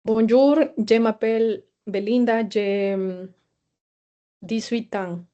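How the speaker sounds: «Bonjour» said as bonjou, the final r dropped, and «je» said as jé; a deliberately clumsy learner's French, je said as jé; badly pronounced. Shown as a demonstration. Teacher testing the chatbot with a deliberately mispronounced greeting. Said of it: "je vais dire une phrase très mal prononcée".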